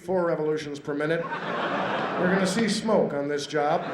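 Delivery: lightly voiced cheery sadistic dentist; gleeful dentist. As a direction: relish the pain like a cruel doctor. Sadistic dentist explains drilling.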